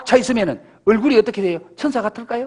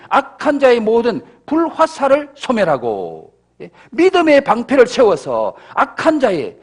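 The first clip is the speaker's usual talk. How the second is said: forceful sermon delivery; preaching; 3 semitones higher than usual. Acted. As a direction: preach it with conviction. Preacher exhorting congregation. (힘 있는 설교조)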